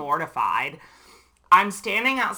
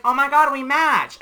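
higher and louder gushing squeal; mock excited girl; 9 semitones higher, 7 dB louder than usual. Stranger spotting matching sequins, gushing mock excitement. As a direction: gush like a thrilled stranger at a party.

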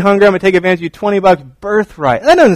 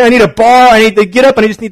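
put-on high, loud childish whine; a boy pleading for a snack; whiny kid; 7 semitones higher, 7 dB louder, faster than usual. Pastor imitating his sons begging for a bar.

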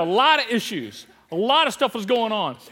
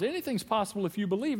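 calm; 7 dB quieter, faster than usual. Retold or imitated. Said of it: "Jesus just calmly responds".

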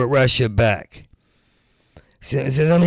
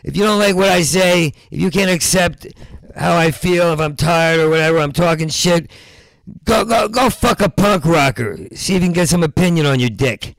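mock angry rant; 5 semitones higher than usual. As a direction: let the anger out at the crowd. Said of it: "Let's get some anger out".

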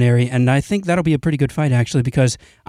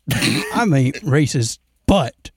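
mock white guy; much slower than usual. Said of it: "white people be like".

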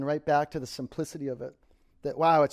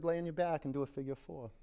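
right in your ear; 4 semitones higher, 8 dB quieter than usual. Acted. Close, hushed yoga cueing.

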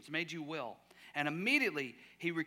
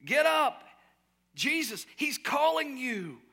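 high, loud rallying call; calling out encouragement; 8 semitones higher, 5 dB louder, slower than usual. Acted. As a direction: urge him onto his feet. Crowd calling to the blind man.

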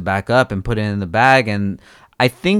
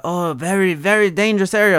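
mock officer voice, higher and fast; imitating the cop's warning, pitched up; 8 semitones higher than usual. Mimicking police warning about the area, mocking and high. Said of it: "And they're".

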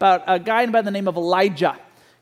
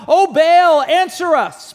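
raised pleading call, higher and louder; shouting prophets; 6 semitones higher, 5 dB louder, slower than usual. Retold or imitated. Prophets of Baal shouting to their god, raised pleading call. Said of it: "they start shouting".

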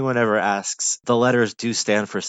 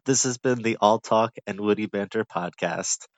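podcast outro. Acted. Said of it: "Ah, that's it".

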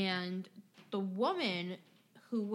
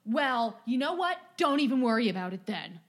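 mock angry customer; 7 dB louder than usual. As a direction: brush her off loudly like an entitled customer. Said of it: "he starts telling me".

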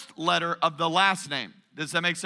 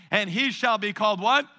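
congregation recitation. Shown as a demonstration. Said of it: "say it with me".

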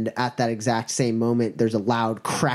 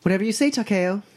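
put-on high, quick girlish voice; compliant girl; 8 semitones higher, faster than usual. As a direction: agree eagerly in a high feminine voice.

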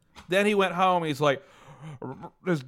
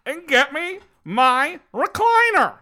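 high, slow and loud demand; bossy dad; 13 semitones higher, 7 dB louder, slower than usual. Retold or imitated. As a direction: order it like a lazy father. Donner orders the mom.

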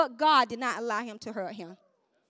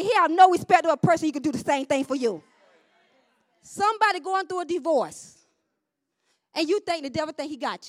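raised, emphatic sermon voice; full-force preaching; 3 semitones higher, 7 dB louder than usual. Real, not acted. Preacher encouraging the congregation through hardship, emphatic preaching. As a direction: drive the promise home, loudly.

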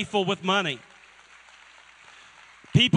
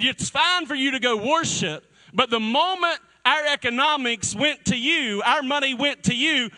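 Pharaoh voice; 4 semitones higher than usual. Retold or imitated. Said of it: "He said".

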